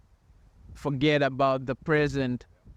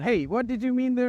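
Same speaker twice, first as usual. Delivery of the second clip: higher-pitched imitation of a puzzled listener; puzzled questioner; 9 semitones higher than usual. Others asking what he meant every time, puzzled and high. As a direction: mimic someone asking for clarification, pitched up.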